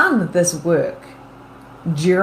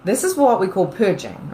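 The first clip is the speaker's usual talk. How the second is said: usual speaking voice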